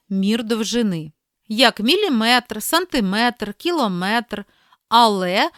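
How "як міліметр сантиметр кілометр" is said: міліметр, сантиметр, кілометр each stressed on the final -метр; last-syllable stress. Shown as a demonstration. Teacher showing length words, stress on final -метр in міліметр, сантиметр, кілометр. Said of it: "На останній склад наголошуємо".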